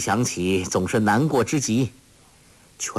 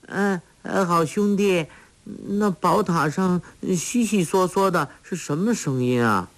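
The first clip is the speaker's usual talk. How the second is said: put-on simple girl crying out; 8 semitones higher than usual. A narrator's reading. Sha Gu complaining she is hungry, high childlike whine.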